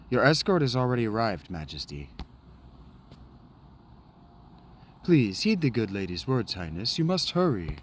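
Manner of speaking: lightly acted noble dialogue; a hint of courtly drama; voicing game characters. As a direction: read the cutscene lines as the characters. Voices game characters in cutscene.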